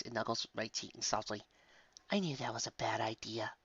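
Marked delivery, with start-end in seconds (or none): 2.1-3.5 hushed, sighing mother; relieved murmur. Acted. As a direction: murmur it softly on a sigh. Mother sighs, hugging child.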